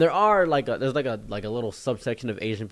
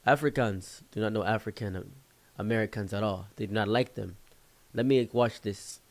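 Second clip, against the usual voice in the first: imitated African accent, measured delivery; 3 dB quieter than usual. African friend explaining a cultural divide, African accent. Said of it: "My African friend explained to me".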